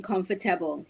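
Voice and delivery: "comfortable" with every syllable sounded; four-syllable comfortable. Retold or imitated. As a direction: say "comfortable" as com-for-ta-ble. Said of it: "He said, "Comfortable?".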